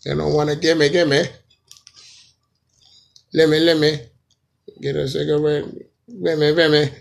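a dancehall artist. Acted. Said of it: "saying the same thing twice".

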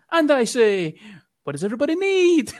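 mock upper-class English accent; posh English accent. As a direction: ham up a toff English accent. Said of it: "shite English accent".

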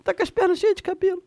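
mock baby talk. Baby talk to hairy husband.

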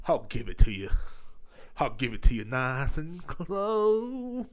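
drawn-out, hammed-up come-on; mock seduction. Host teasing the ladies listening, mock seductive. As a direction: stretch it into a joke seduction.

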